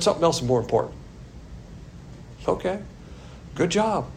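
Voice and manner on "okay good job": dry mock praise, slightly higher; sarcastic. Shown as a demonstration. Pastor mocking people who let doctrine slide, sarcastic praise. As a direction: say good job like you mean the opposite. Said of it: "That's said sarcastically".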